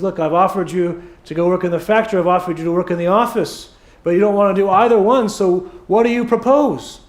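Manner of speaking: brisk, mildly exasperated, building at the end; a little frustrated. Acted. Father-in-law to choosy son-in-law, mildly frustrated. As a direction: run through the offers with mild impatience. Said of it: "gets a little frustrated".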